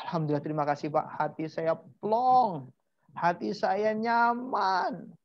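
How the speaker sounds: slow, drawn-out sigh of relief; relieved client. Retold or imitated. Therapy client thanking the therapist afterwards, slow relief. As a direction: savour the relief, stretching the key words. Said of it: "teman-teman yang di terapi itu bilang".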